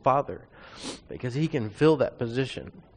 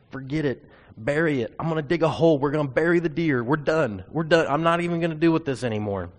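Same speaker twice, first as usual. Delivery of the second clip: loud, higher, exasperated outburst of giving up; frustrated yelling; 4 semitones higher, 5 dB louder than usual. Retold or imitated. Son fed up with his deaf dad, yelling in frustration. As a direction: throw up your hands and shout it out.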